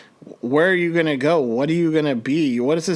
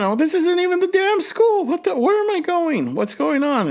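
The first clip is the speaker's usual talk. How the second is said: much higher, frantic and overwhelmed; retold anxious panic. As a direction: let the anxiety spill over. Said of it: "And this is my anxiety".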